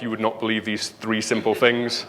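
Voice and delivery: a hint of a breathless clickbait headline, lightly voiced; BuzzFeed clickbait style. Speaker mocks BuzzFeed headlines to the audience, lightly voiced clickbait tease. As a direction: tease it like a clickbait hook, half mocking. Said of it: "BuzzFeed style".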